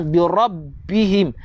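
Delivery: "bi rabbihim" slow with held double b; clear shaddah. Shown as a demonstration. Teacher repeats the correct reading, "bi rabbihim" with doubled b. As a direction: linger on the b of "rabbihim". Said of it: "Nampak tak sabdu?".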